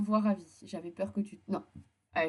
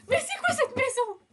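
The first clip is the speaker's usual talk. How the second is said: en riant incrédule; 4 dB louder than usual. Real, not acted. Réaction amusée à la scène.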